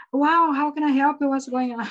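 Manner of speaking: lightly voiced worried American; a hint of a startled helper; mock alarmed American. Teacher imitating Americans reacting to "why so". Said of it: "os americanos dizem".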